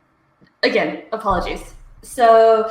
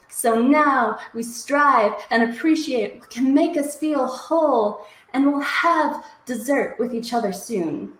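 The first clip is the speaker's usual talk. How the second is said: rhythmic, emphatic poetry recital with swinging pitch; spoken-word poem; 3 semitones higher than usual. Acted. Poet performing her hot dish love poem to livestream viewers, spoken-word delivery. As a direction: perform it as sassy, punchy slam poetry.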